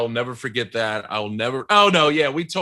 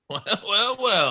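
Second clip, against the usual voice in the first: put-on showbiz figure; 7 semitones higher than usual. Puts on a mock industry-man voice.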